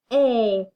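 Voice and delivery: A-k as two separate sounds; a, then k; tapping out sounds. Shown as a demonstration. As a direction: split ache into its two sounds. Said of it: "Tap it again".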